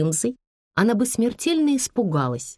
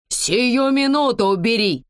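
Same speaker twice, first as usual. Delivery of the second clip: panicked squeal; 4 semitones higher than usual. Acted. Bandit demands Liza remove the dog, squealing. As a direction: shriek it, arm in the dog's jaws. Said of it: "не своим голосом визжал бандит".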